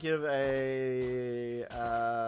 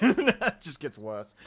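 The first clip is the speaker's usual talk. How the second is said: laughing; 8 dB louder, slower than usual. Real, not acted. Laughing at lyrics.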